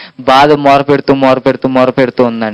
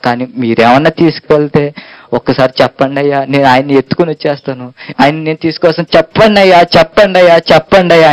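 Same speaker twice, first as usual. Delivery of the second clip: sorrowful pleading. Acted. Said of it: "అని బాధతో అండి".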